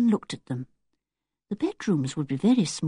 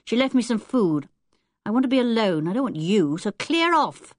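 put-on higher, cheeky boy's challenge; a rude young boy taunting strangers; 4 semitones higher than usual. Ten-year-old telling strangers his aunt will chuck them, rude.

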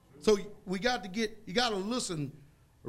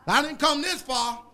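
bold confession; 4 semitones higher, 5 dB louder than usual. Retold or imitated. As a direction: declare it like nothing can stop you. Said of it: "that's a different language".

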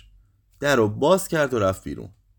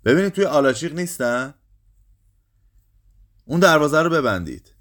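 high, raised commanding voice; shouted order; 6 semitones higher, 4 dB louder than usual. A narrator's reading. Groom's father orders the gate shut, shouting. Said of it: "پدر داماد فریاد کشید".

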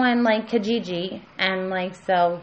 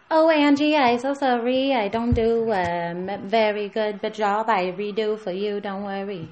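apologetic assistant character. Acted. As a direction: apologise to the boss in a Hong Kong accent. Assistant apologises to her boss.

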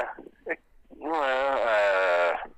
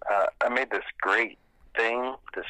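tinny phone audio; phone speaker. Real, not acted. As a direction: voice over a speakerphone. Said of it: "Put him on speaker".

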